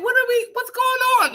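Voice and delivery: very high, bewildered voice; just woken up and lost; confused hungover self. Retold or imitated. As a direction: sound lost and disoriented. Retelling her own confusion.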